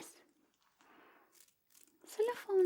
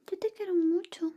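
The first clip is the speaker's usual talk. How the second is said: whisper; 2 semitones higher than usual. Acted. ASMR whisper roleplay.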